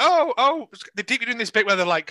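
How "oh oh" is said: mock reverend gasp. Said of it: "And she goes like".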